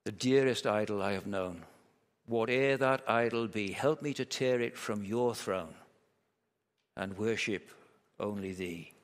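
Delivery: hushed, measured verse reading; prayerful hymn recital. Acted. Preacher recites a hymn to close his point, hushed and prayerful.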